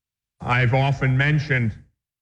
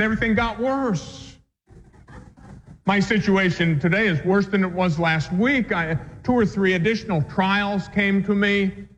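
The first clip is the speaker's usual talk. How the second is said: higher-pitched mimic of a complaining woman; upset parishioner; 5 semitones higher than usual. Priest retelling a parishioner's complaint, mild upset imitation. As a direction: lightly voice her grievance, pitched up. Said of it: "she was upset with me".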